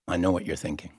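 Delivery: low, soft knowing remark; quiet, low-pitched knowing murmur; confiding aside. Acted. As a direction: drop the voice and confide it.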